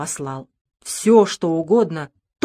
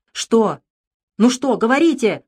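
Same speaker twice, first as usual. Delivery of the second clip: a touch louder, strained demand; painful cry; 4 semitones higher, 4 dB louder than usual. Acted. Doctor urges the father to speak, pained outcry. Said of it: "выкрикнул я болезненно".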